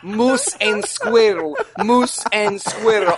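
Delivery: slow, hammy cartoon Russian accent; Boris and Natasha Russian accent. Joking about the Antichrist's coach, slow cartoon Russian accent. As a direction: drawl it like a cartoon Russian spy. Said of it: "Boris and Natasha".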